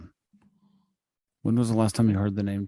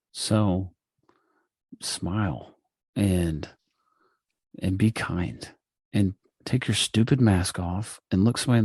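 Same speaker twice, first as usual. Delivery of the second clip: late night DJ voice. Real, not acted. Host giving co-host his lesson of the day, lightly voiced late night DJ. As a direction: ease into measured DJ delivery, with long pauses. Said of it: "really nice late night D J voice".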